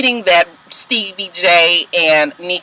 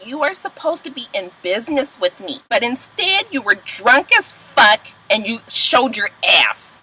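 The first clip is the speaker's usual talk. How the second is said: disgusted; 5 dB quieter than usual. Retold or imitated. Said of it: "she's upset with Stevie J".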